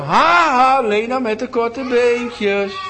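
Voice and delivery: high, loud, slow jeering chant; mocking laugh. Bullies laughing at Lena's short arms, slow high jeer. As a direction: jeer at her like a bully. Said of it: "begonnen ze te roepen".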